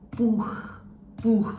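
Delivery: "buch" con ch soffiata in gola; hissing-cat ch. Shown as a demonstration. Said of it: "the hissing cat".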